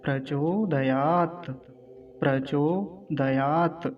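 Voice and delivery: slow प्रचोदयात with long चो and या; careful pronunciation. Shown as a demonstration. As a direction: stretch प्रचोदयात, stopping on t. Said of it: "अंतिम शब्द क्या है". (प्रचोदयात का धीमा, स्पष्ट उच्चारण)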